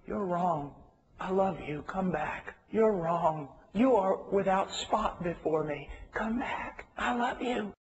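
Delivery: soft, gentle and loving; a hushed, loving rebuke; tender voice of God. Retold or imitated. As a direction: say it softly, like a father calling a child home. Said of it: "He says it like this".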